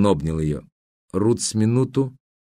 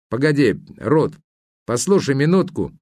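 a higher, pressing call to wait; urgent Herbert; 5 semitones higher than usual. A narrator's reading. Herbert calls Ruth back, higher and urgent. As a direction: catch her before she leaves.

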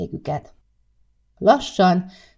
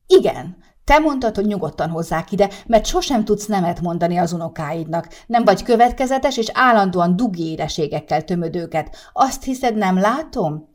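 heated scolding; 3 semitones higher than usual. Acted. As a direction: pile the accusations on, riled up. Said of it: "folytatta felpaprikázva". (felpaprikázva, hangosan korholó feleség)

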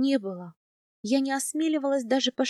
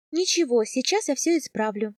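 with a smile; 2 semitones higher than usual. Acted. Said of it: "с улыбкой сказала я".

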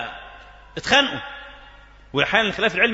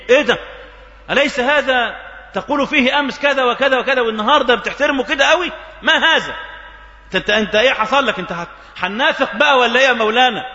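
indignant protest; 4 semitones higher than usual. Acted. Outraged students protesting to teacher.

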